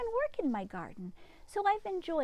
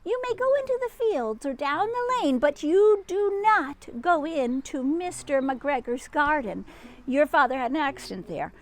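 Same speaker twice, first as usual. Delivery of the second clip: 1 mother rabbit; 5 dB louder than usual. Acted. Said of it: "said old Missus Rabbit".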